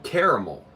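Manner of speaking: "caramel" as KAIR-uh-mul; echoed pronunciation. Retold or imitated. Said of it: "No one's saying caramel".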